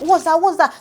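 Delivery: high, indignant double question; offended retort. Retold or imitated. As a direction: fire it back, affronted. Vanessa retorts to Pere.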